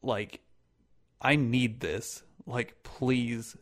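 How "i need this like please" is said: slow, earnest mock begging; dead serious plea. Acting out the girl begging, dead serious. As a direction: plead slowly as if you truly mean it. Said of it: "fucking serious like that".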